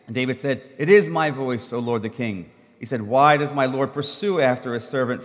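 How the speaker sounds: a reader sharing verses in turns; scripture reading. Acted. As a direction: read the passage out to the congregation. Reads scripture passage aloud.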